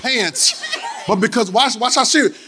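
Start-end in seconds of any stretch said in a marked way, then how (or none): 0.0-0.8 high "pants", one syllable, crisp ending; model pronunciation. Shown as a demonstration. Preacher drilling congregation, exaggerated correct pronunciation. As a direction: hit the final ts of "pants", pitched up. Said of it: "everybody say pants".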